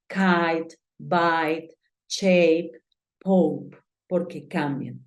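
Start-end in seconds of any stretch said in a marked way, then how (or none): 0.1-3.8 "kite", "bite" with ai, "shape" with ei, "pope" with ou; English long vowels. Shown as a demonstration. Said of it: "Por eso decimos". (vocales largas inglesas en "kite", "bite", "shape", "pope")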